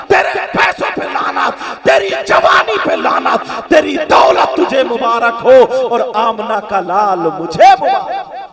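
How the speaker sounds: put-on girl spits curses on his wealth; defiant girl cursing his riches; defiant refusal. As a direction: throw his money back at him. Girl rejects the rich man.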